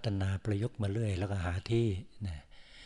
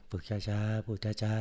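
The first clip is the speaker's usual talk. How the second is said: slow speech; slower than usual. Shown as a demonstration.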